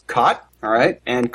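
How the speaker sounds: "caught" drawn out with the "cot" vowel; demonstrative "caught", merged with "cot"; cot-caught merger. Shown as a demonstration. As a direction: say "caught" slowly, just like "cot". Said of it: "Let's hear that".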